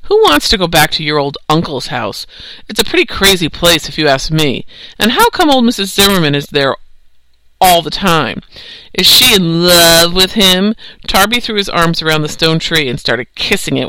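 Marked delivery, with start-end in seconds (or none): 0.0-10.7 mean taunt. Acted. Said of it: "he also looked mean".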